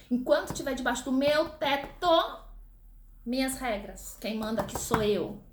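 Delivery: lightly voiced stern mom; a touch of the mother asserting authority; strict mother laying down rules. Teacher imitating a mother stating house rules to her child, mild stern tone. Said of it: "uma outra máxima que todas as mães falam".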